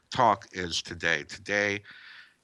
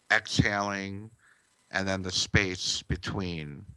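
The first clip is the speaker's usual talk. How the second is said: guided meditation. Acted. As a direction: ease the listener into stillness.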